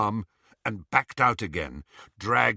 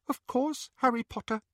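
whispering elf; 13 semitones higher than usual. Acted. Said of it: "whispered the little elf".

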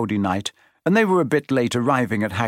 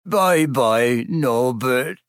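sobbing; much slower than usual. A narrator's reading. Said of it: "Hagrid sobbed".

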